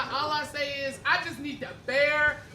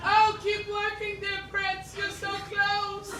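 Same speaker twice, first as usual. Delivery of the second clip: princess voice; 7 semitones higher, slower than usual. Acted. Princess cheering prince up tower.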